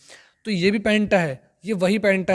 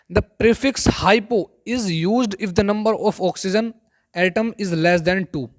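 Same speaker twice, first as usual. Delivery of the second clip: slow rule reading; much slower than usual. Acted. Reads rule from slide slowly.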